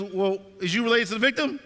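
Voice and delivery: retold rude questioning. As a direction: challenge them like a rude desk officer. Acted curt sergeant questioning him.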